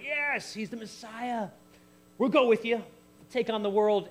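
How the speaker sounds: high-pitched, eager rallying cry; hammed-up excited disciples; acted excited cheer. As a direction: cheer like a follower ready to charge in. Voices eager disciples rallying to the Messiah.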